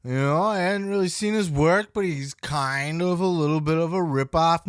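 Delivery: lightly voiced mock Nash, high and loud; mild mock of Nash playing it down; mocking Kevin Nash. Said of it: "No, you didn't say it like that".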